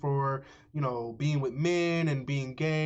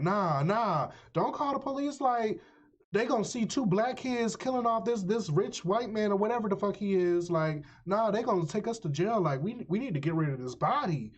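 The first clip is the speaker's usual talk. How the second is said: panicked; 6 semitones higher than usual. Retold or imitated. Dev panicking about police.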